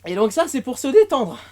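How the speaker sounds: out of breath after yoga; breathless, panting words; gasping for air. Real, not acted. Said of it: "je suis essoufflé mais pas détendu".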